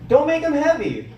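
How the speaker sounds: mock-threatening gym rule; threatening sign. Gym sign warning lifters about the weights, mock threatening. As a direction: read out like a stern warning sign. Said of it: "all these threatening signs".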